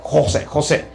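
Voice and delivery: mock thick Arab accent. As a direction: say the name imitating her Arab accent. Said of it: "this thick Arab accent".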